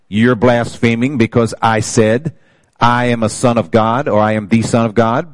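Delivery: lifted, deliberate reading of the verse; preacher reading Jesus' words from John; scripture reading. Acted. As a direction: declaim the passage to the congregation. Reads scripture aloud.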